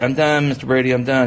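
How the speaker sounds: a kid pleading to his teacher that he's done, mock whiny and loud; imitating whiny kid. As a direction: play the kid begging to be finished. Imitating a kid who wants to stop.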